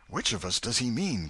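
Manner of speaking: put-on mildly breathless scared boy; boy hearing the dog howl, a hint of fright; gasped. A narrator's reading. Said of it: "gasped Huckleberry".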